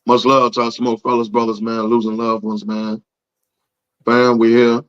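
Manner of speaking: hoarse, lost voice; talking through a shot voice; raspy voice. Real, not acted. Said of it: "I have no voice".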